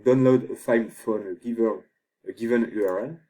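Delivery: English with a strong French accent; rotten English accent. Real, not acted. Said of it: "Pardon pour mon accent complètement pourri".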